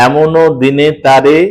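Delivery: "এমনও দিনে তারে" slowly as one unit, stopping after "তারে"; first metrical phrase. Shown as a demonstration. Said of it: "এই অবধি একটা পর্ব".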